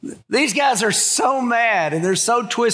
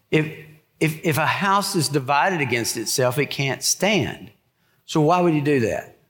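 patient; 4 semitones lower than usual. Retold or imitated. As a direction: talk them through it gently. Patient Jesus explaining.

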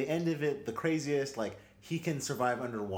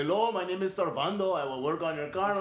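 fake technician; 6 semitones higher, 5 dB louder than usual. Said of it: "as a technician and be like".

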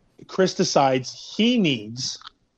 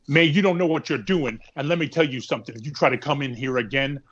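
hard flat inflection. Retold or imitated. Podcast host mocking Luke's threat, hard inflection. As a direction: imitate Luke's hard dead-end delivery. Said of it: "ends everything in that hard, hard inflection".

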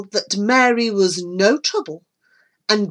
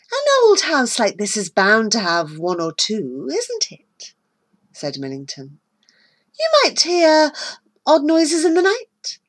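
veiled threat; 2 semitones higher than usual. Acted. Millington threatens Mary.

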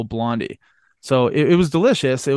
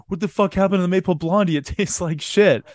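fast, indignant outburst ending in a laughing yell; hammed-up disgusted employee; a touch of mock outrage, laughing on the end; mock angry complaint; 3 semitones higher than usual. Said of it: "came out of the freezer".

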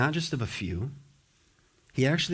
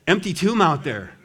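laughing tease; 6 semitones higher, 7 dB louder than usual. Retold or imitated. Women mocking disciples, laugh heard.

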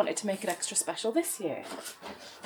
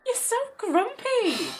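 teasing; 10 semitones higher, 3 dB louder, slower than usual. Acted. Sister teasing Jen.

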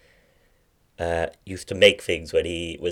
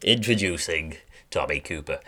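a hint of a TV interviewer making an introduction; Michael Parkinson. Impressionist introducing Tommy Cooper as Michael Parkinson, lightly impersonated. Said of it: "Michael Parkinson".

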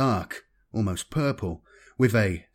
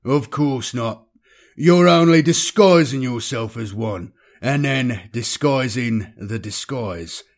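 slow, dry and cynical; 4 dB louder than usual. Acted. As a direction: grin through the sarcasm. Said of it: "Ruglo grinned cynically".

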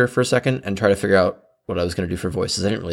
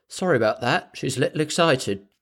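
light British accent, lightly voiced; a hint of British accent, apologetic; soft British accent, apologising for a friend; 4 semitones higher, 3 dB quieter than usual. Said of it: "in her clear British accent".

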